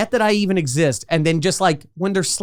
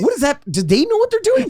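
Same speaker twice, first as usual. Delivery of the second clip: higher, laughing what-is-that; laughing disbelief; 11 semitones higher than usual. Retold or imitated. Mocking the bad background extras, laughing and higher. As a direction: ask it through laughter. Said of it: "you're like".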